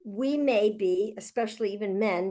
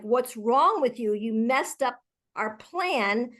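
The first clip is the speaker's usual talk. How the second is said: accusing. Shown as a demonstration. Leader rethinking a reaction to a colleague, accusing. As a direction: demo of the judging way. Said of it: "changing that thought ... to, like".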